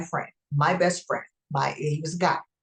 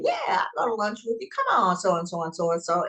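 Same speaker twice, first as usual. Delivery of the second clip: eager guy; 2 semitones higher, faster than usual. Retold or imitated. Mimics the guy's eager reply.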